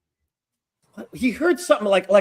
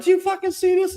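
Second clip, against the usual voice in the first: high-pitched mock disbelief; retold incredulous question; faster than usual. Student to his friend after the fight, high incredulous retelling. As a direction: re-enact turning to a friend, amazed, pitch jumping up.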